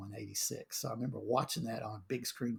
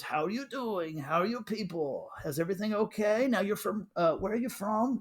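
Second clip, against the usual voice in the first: director being friendly; 6 semitones higher than usual. Retold or imitated. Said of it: "he came up to me and goes".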